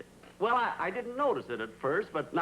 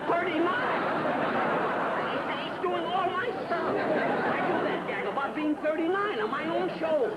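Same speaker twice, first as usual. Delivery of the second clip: indignant outburst; 12 semitones higher than usual. Real, not acted. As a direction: sputter at the injustice. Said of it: "please be quiet".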